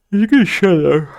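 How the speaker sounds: high, loud shut-up; loud snap. Acted. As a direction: bark it sharply at them. Snaps at the other character.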